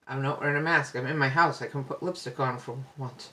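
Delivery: talking between sips of coffee; slurping coffee. Real, not acted. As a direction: speak with a mouthful of hot coffee. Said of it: "Sorry, I'm so slurpy".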